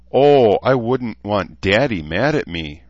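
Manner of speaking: high, loud, slow mocking snip; snippy. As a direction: tease him with a snippy bite. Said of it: "Rachel said again snippily".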